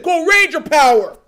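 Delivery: lightly hammed-up morphing call; imitated hero call. Fan quoting Gold Ranger, mock-heroic call. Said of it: "that man said".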